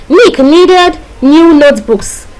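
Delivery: deliberate, word-by-word example; demonstration sentence. Shown as a demonstration. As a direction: space out each N word. Teacher demonstrates an alliteration example.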